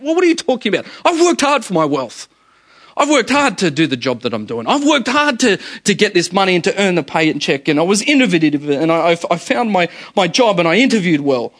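mock the self-made man insisting he earned it; indignant mock protest. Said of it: "we think".

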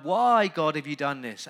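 crying out to God. Acted. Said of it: "he's crying".

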